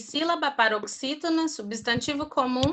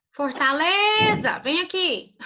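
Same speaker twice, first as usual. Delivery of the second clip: Fortaleza called out higher and slowly like a cross mother; angry mom calling; 7 semitones higher than usual. Shown as a demonstration. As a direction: call the kid in like an angry mom. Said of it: "igual a mãe chama vocês? Quando ela tá brava?". (chamando como mãe brava, mais agudo e devagar)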